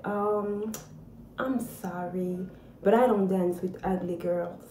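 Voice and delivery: soft, quiet, dismissive put-down; cold brush-off. Retold or imitated. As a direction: let him down coldly and quietly. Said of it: "He turned to me and he said".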